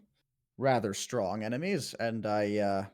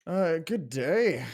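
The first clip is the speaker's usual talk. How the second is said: polite greeting; 6 semitones higher, 5 dB louder, much slower than usual. Acted.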